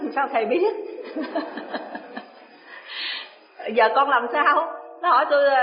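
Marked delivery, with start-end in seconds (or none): 3.7-4.7 pleading question. Retold or imitated. Disciple asks again.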